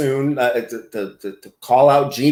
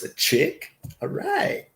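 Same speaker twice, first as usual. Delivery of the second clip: squeaky rising all right; 13 semitones higher, 6 dB quieter, slower than usual. Shown as a demonstration. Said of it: "So far, it's a bunch of chicks".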